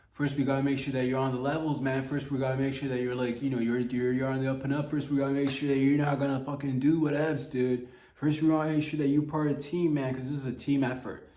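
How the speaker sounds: chummy hiring-manager pep talk; mock bro recruiter. Voicing the recruiter.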